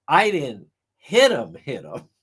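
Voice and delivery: mocking voice with dropped echo; mocking imitation. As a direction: mimic the lawyer's mockery. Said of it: "Hank Brennan mocks her".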